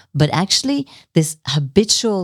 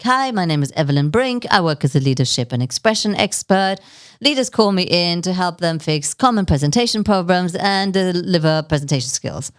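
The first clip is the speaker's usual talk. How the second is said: bored rote intro. Shown as a demonstration. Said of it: "if I say it like that".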